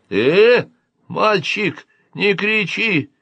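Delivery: high-voiced admonition; alien major. A narrator's reading. Alien tells boy to stop yelling, high voice. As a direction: pull the shouter up from on high.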